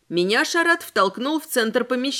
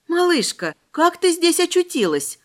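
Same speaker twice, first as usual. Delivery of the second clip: gentle question; 8 semitones higher than usual. Acted. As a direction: coax a small child gently, voice raised in pitch. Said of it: "спросила я негромко". (ласково спросить у маленькой девочки, голосом повыше)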